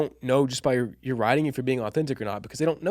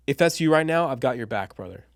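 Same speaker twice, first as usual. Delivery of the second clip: a friendly, sincere reassurance; warm and inviting. Shown as a demonstration. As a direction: lean in like a buddy who has your back. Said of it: "Notice how different that sounds".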